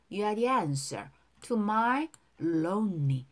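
slow, even teacher's model line; slow model reading. Shown as a demonstration. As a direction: spell each word out slowly. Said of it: "두 번씩 따라 할게요". (천천히 또박또박 시범 발음)

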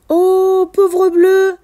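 high, sympathetic cooing; acted pity. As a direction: feel sorry for a sick friend. Character pities sick whale.

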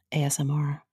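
unvoiced close ASMR whisper. Shown as a demonstration. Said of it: "Enjoy this, listeners".

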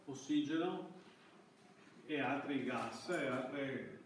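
ordinary talk

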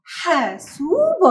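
حاسوب stretched slowly, long و held; drawn-out word. Shown as a demonstration. Teacher modelling حاسوب for children, very slow. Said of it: "سين مد الواو سو".

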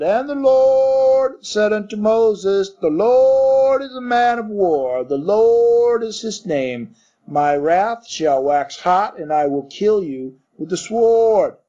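slow, high, loud pulpit boom; bellowing preacher. Acted. Minister bellowing scripture at the congregation, loud and slow. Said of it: "when he bellowed".

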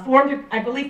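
ordinary delivery

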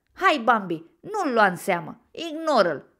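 loud, urgent urging; calling out. A narrator's reading. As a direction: shout to a friend to ignore it. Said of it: "strigă Bocănilă". (strigat, îndemnând un prieten)

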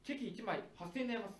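maid cafe voice. Acted. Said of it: "メイド喫茶みたいになったね".

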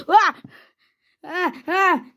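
short, sharp cries; play-acted cries under attack; mock yelps. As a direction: yelp with each hit. Villain is attacked.

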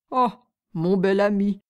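loom over him like a dim brute. Acted. Two-headed giant speaks.

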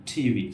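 টিভি with a puff on the t; aspirated t. Shown as a demonstration. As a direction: breathe out on টিভি. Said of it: "অনেকটা ঠয়ের মতো".

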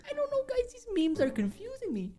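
very high, soft squeaky voice; squeaky confusion. Pretend. Telling viewers the memes confuse them, squeaky mock confusion. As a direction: play up bafflement in a small high squeak. Baffled by the meme, playing it up.

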